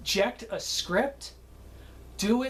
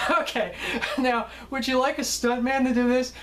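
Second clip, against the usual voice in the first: higher voice, retold through chuckles; bursting out laughing; 5 semitones higher than usual. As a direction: ask it while recovering from a laughing fit. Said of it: "I burst out laughing".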